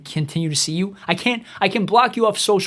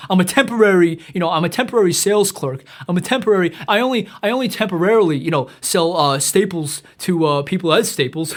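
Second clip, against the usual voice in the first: mock wannabe rapper. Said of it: "my name is M C Words".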